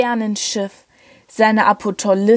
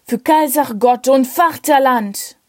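bellowed toast; 3 semitones higher than usual. Acted. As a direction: shout it out like a soldier's toast. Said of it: "brüllte der Leutnant".

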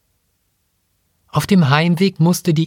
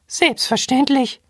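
much higher piping monkey voice; squeaky robot monkey; 12 semitones higher than usual. Acted. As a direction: chirp it like a tiny robot monkey.

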